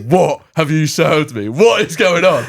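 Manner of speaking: indignant demand, hammed up; outraged husband. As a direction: play the appalled husband, half laughing. Imagined husband outraged at his food.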